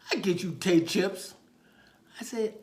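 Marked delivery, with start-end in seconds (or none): 0.1-1.3 put-on high, loud small-child voice; small boy making a request; little boy. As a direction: pipe up like an eager kid. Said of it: "there's a little boy there".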